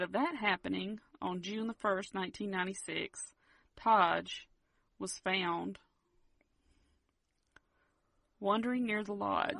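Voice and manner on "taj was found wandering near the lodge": long suspense pauses before "wandering near the lodge"; dramatic pauses. Shown as a demonstration. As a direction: hold "Taj" then pause long before the reveal. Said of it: "making it a little more dramatic there".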